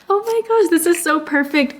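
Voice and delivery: high, thrilled oh my gosh; very high, excited exclamation; excited squeal. Real, not acted. Reads a brand's gift letter.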